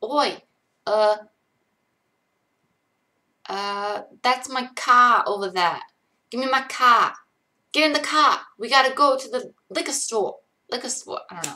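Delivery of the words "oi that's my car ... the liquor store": loud, put-on Boston accent attempt. Speaker trying out accents on practice sentences, in a boston accent. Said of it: "A Boston accent".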